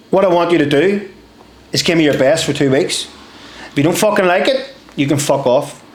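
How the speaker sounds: lightly imitated Scottish corporal; Scottish accent. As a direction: lay down terms in put-on Scottish. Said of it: "he goes in a Scottish accent".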